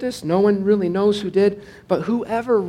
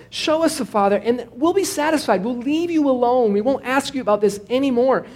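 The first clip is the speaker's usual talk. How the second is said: higher, mildly whiny plea to Jesus; a light whine, like a nagging student; whining Philip; 5 semitones higher than usual. Acted. Philip pleading with Jesus to show the Father, mild whine. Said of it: "You can almost hear some whine".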